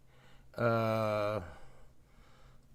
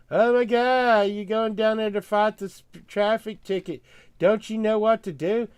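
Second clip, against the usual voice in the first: mock incredulous friends; 8 semitones higher, 6 dB louder than usual. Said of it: "everybody's saying".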